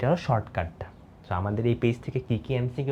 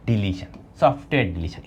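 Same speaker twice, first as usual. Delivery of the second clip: whisper; 5 semitones lower than usual. Shown as a demonstration. Teacher points out the exam term.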